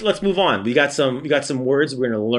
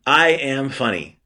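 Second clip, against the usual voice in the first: slow example; slower than usual. Shown as a demonstration. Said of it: "I wanna be able to say".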